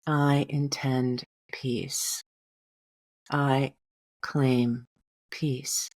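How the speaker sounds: affirmation. Shown as a demonstration. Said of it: "This is".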